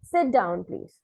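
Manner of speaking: teacher's "Sit down, please" with the tune falling away. Acted. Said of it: "says to you in a falling tone".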